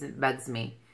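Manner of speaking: ordinary talk, nothing marked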